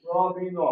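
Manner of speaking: "র", "বি", "ন" each said alone with a short pause; sounded out letter by letter. Shown as a demonstration. Teacher counting the letters of রবিন, sounding each out. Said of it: "রবিনের ভিতরে তিনটা অক্ষর না".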